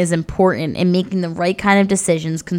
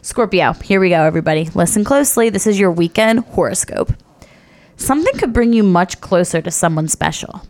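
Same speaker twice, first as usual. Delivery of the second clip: mystical horoscope reading. Acted. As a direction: read the stars to listeners. Reads weekly horoscope aloud.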